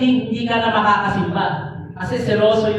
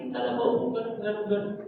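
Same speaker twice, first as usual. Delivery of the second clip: mock wailing lament; 11 dB quieter than usual. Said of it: "umiyak siya".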